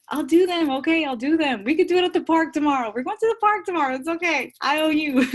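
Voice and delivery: loud, high, fast protest; flustered promise. Real, not acted. Promising the group to do them tomorrow, high loud playful protest. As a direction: blurt it out high and loud, nearly laughing.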